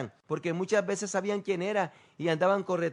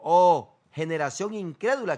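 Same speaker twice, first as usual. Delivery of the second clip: "Oh" blasted out loud then the rest plain; sharp loud cry of "Oh"; loud exclaimed rebuke; 5 dB louder than usual. Shown as a demonstration. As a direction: burst out on "Oh". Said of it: "Lo primero que responde es".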